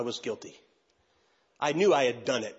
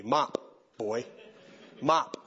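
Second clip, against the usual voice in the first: voice of God; 3 semitones lower, much slower than usual. Retold or imitated. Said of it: "God hits me upside the head saying".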